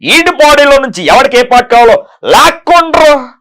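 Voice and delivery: high, loud menacing villain line; film villain dialogue. Retold or imitated. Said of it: "ఈ dialogue వచ్చేసి".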